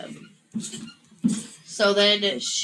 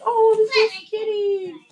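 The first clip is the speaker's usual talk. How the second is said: much higher surprised voice; mock surprised hero; 12 semitones higher than usual. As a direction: squeak it in mock shock.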